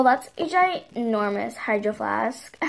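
talking with gum in mouth; mouth full. Pretend. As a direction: chew gum while talking. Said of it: "like, gum in your mouth or something?".

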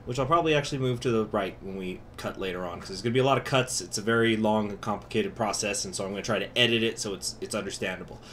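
muffled behind a mask; talking through a cloth mask; through a face mask. Real, not acted. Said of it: "sorry that I'm got a mask over my face".

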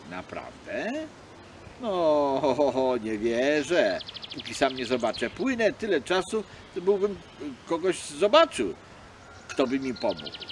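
bait the seal with disbelief; sly doubting fox. Acted. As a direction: fox pretending not to believe.

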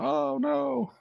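high, mock groan of dread; hammed-up sailor dread; mock dismay. Sailor woken by the alarm, hammed-up dread.

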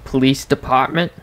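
"department" with a Boston dropped r; Boston accent. Shown as a demonstration. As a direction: say "department" like a Bostonian, pah for par. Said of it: "like, a Bostonian accent".

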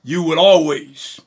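impassioned sermon delivery with swelling emphasis on key words; fervent preaching. Real, not acted. Preacher assuring believers they will never be separated from God, fervent preaching. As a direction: preach it with conviction, stretching the weighty words.

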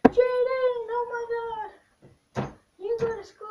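high mock viewer voice. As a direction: mimic a gasping viewer, slow on oh my God. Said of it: "you guys are probably asking, like".

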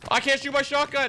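high, loud angry shout; furious outburst at the gun; frustrated yell. Real, not acted. Shotgun bugged, frustrated.

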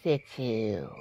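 1 whisper. Acted. Fumbling for a word.

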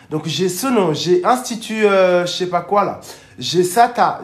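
loud, high roll call of names; rally the audience, punching out each name; hyped rallying call. Real, not acted. Rallying live viewers to share.

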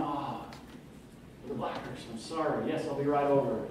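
soft, half-whispered mumble caught out; a kid caught forgetting the neighbor's lawn; sheepish apology. Retold or imitated. Caught kid answering angry neighbor.

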